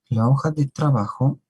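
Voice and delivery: teacher raising the voice to stress "La hoja de trabajo"; emphatic title. Real, not acted. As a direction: announce "La hoja de trabajo" like a heading, up and loud. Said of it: "repeats the title with emphasis".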